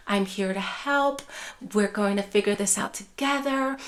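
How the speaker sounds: steady them with a calm voice; soft tone. Shown as a demonstration. Caregiver promising help to an upset parent, softly. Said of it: "in that soft tone of voice".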